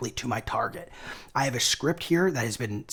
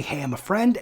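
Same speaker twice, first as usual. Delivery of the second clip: friendly; 6 semitones higher than usual. Shown as a demonstration. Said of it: "the friendly".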